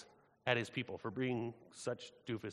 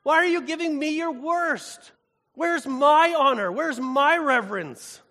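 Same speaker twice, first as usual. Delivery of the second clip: much higher and louder, slow, outraged divine voice; angry God; 9 semitones higher, 11 dB louder, slower than usual. Acted. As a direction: thunder it out as a wounded, furious God. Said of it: "And God says".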